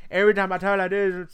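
a hint of a rapper's odd delivery; imitating a rapper. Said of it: "that's how he sounds".

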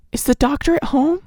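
put-on high, urgent young woman asking at the gate; Nellie's anxious voice. A narrator's reading. Nellie asking the doctor's cook, a high anxious voice. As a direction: raise the pitch, ask with worry.

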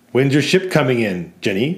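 Walter repeats the taunt, lightly mocking; jeering customer repeat. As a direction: echo the jibe at Jenny. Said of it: "says Walter".

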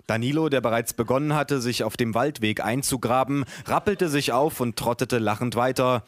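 measured, lively book-reading voice; story narration. A narrator's reading. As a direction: read your own story to an audience. Reads own book aloud.

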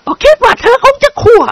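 high lady voice opening on a giggle; giggling. A narrator's reading. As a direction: giggle then tease. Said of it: "หัวเราะคิก". (หัวเราะคิกแล้วพูดแซว)

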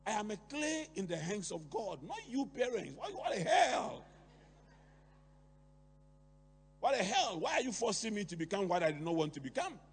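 a rebellious son shouting back, rising to an outraged shout; defiant son. Retold or imitated. Son to parents, protesting his subjects, outraged shout. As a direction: throw the parents' demands back at them in outrage. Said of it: "the boy is saying that".

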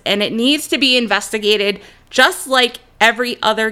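real indignation, emphatic and insistent; infuriated. Real, not acted. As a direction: protest it firmly, hitting the key words. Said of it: "This whole thing is so infuriating".

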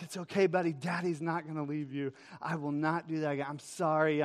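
acted-out soft apology to a child; apologetic reassurance. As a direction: soothe your little boy, voice dropping. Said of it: "I'm, like, apologizing to my son".

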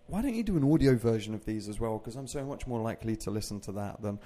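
a lightly voiced silly imitation of the fiancée. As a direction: quote her in a mildly silly put-on voice. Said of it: "I don't know why I'm doing a silly voice".

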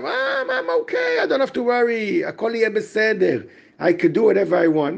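mildly hammed-up "I'm fine" self-talk; self-assured inner voice. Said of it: "this guy will say to himself".

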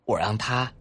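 put-on high, loud, quick little boy; bubbling over with a new game; excited child. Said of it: "一个孩子说".

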